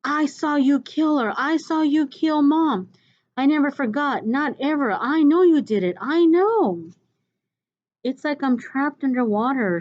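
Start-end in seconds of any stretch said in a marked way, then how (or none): 0.0-6.9 put-on boy yelling the truth at his father; accusing shout. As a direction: hurl it at the father, raised and desperate. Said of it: "I'm going".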